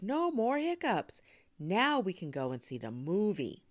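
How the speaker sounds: high, loud excitement easing slightly; cheering. A narrator's reading. Girl celebrating end of hiccups, excited cheer. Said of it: "Sophia cheered".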